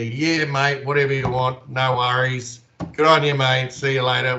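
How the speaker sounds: laid-back Aussie mateyness, acted out; casual Aussie. Shown as a demonstration. Australian demonstrating how mates sign off, casual and carefree. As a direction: shrug it off like an easy Aussie. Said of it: "we're so casual and so laid back".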